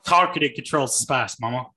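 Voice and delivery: lightly voiced singer impression; a hint of a classic rock and roll singer. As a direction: play it as a joking rock and roll crooner. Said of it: "doing the rock and roll singer voice for Dune two".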